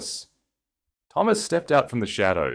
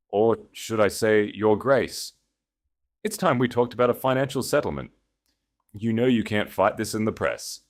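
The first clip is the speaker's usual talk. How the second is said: a lightly voiced, pushy ex-husband, higher; smug ex-husband; 5 semitones higher, 4 dB louder than usual. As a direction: push him around with mock confidence. Dalton voiced in the story.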